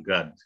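God with an open ah vowel; American pronunciation. Shown as a demonstration. Teacher shows Americans blur the words, American God. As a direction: say God as "gahd", close to gut. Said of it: "Kalau American saru nih".

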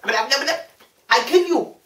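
very slow, drawn-out mock dub; badly dubbed Japanese film. Mocking dubbed movies to friend, very slow mock threat. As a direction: drag it out like mismatched lip sync. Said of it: "them Japanese movies".

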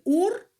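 «ур» said high and loud as the wrong split; wrong split stressed. Shown as a demonstration. Teacher warns pupils against splitting «уроки» wrongly, emphatic. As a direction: punch «ур» as the mistake. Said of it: "ви не можете написати".

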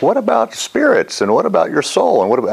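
lightly voiced pestering student; quoting the lady. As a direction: mimic a frustrated questioner. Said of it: "she's like".

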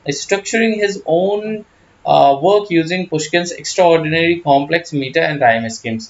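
slow, careful read of English text; slow reading aloud. Acted. Teacher reads English notes slowly to students. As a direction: read the quoted line deliberately.

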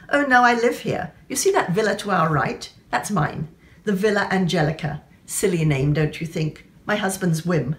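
lightly acted fashionable Englishwoman, chatty; hint of an airy lady showing off her villa; lightly voiced society lady. Fashionable woman tells her new acquaintance about her villa, lightly acted society lady.

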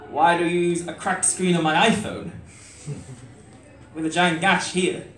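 letter read as spoken word; poem recitation. Acted. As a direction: recite like a heartfelt open letter.

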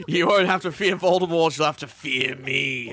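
a lightly voiced villain warning Harry; mock threat. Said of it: "I was like".

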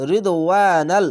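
"রিদওয়ানাল" with the ওয়া drawn out; one-alif stretch. Shown as a demonstration. Teacher demonstrates Quran reading to learners, long vowel stretched. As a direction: recite "রিদওয়ানাল", holding the ওয়া a beat longer. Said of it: "এক আলিফ টেনে পড়বেন".

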